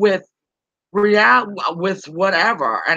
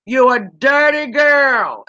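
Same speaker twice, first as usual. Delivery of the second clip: put-on slow, loud, teasing "dirty girl"; mock scolding shout; 4 semitones higher, 4 dB louder, slower than usual. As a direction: call her out with a playful yell. Teasing a lurking chat viewer.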